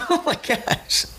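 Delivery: very high-pitched squeal of disbelief; real astonishment. Real, not acted. Game master seeing a natural twenty roll, high astonished squeal. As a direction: gasp it out high, amazed at your luck.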